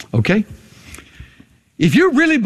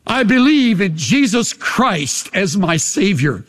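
sincere confession. Shown as a demonstration. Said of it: "some of you would have to say for the first time".

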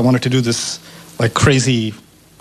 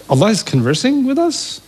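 high, astonished question; pitched-up wonder; awed surprise; 7 semitones higher than usual. Real, not acted. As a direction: marvel at the discovery. Amazed realization.

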